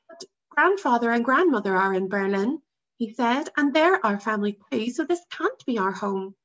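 put-on boy voice. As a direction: argue it like a clever boy. Boy arguing with father.

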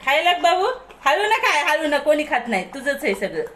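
high, loud voice for a pet; high-pitched, fond chiding; doting pet talk. Real, not acted. Urging pet to eat slowly.

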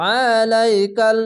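আলাইকাল with the ain squeezed from the throat; a heavy, throaty ain; throat-pressed ain. Shown as a demonstration. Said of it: "গলা চিপে পড়বেন".

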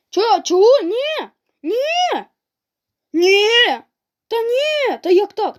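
high, loud protests as the match slips away; squeaky outcry. Real, not acted. Gamer yelling at the screen while losing, high and squeaky. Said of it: "чому в мене такий голос".

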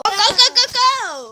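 high excited shouts; excited yelling. Real, not acted. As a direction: yell it out in a rush.

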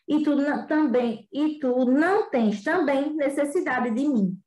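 expressive read-aloud with voiced characters; story reading. Teacher reading The Little Prince to students, expressive storytelling. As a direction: read the tale to the class with feeling.

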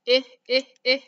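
loud, repeated short I as in insect; emphatic vowel. Shown as a demonstration. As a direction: hammer the "I" sound three times for the class. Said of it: "P-I-G".

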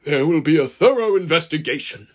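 loud, stern station master's scolding; forceful, indignant boss character; angry snapping. A narrator's reading. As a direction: lay down the law to a blundering driver. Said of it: "snapped the man in charge".

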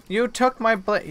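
mildly outraged, drag out the complaint; annoyed outburst. Real, not acted. Creature steals her blade.

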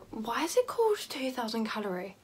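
puzzled whispered aside. Real, not acted. Vlogger wondering about the mascara's name in a whisper. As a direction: whisper the question to yourself, bemused.

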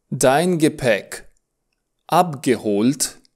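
dein Gepäck abgeholt, slowed; slow teaching model. Shown as a demonstration. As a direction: break the question down slowly. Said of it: "Hast du".

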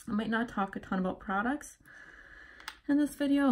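slightly winded, breathy speech; out of breath. Real, not acted. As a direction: talk while out of breath. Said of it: "and I'm so out of breath".

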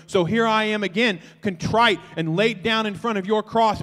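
confession prayer. Acted. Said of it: "We get honest about, like".

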